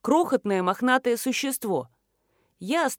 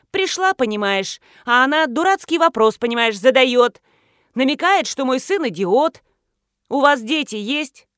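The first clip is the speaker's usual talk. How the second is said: loud, higher, indignant tirade; angry attack; 5 semitones higher, 6 dB louder than usual. A narrator's reading. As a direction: go after the detective. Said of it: "продолжала нападать на меня". (гневно, с напором)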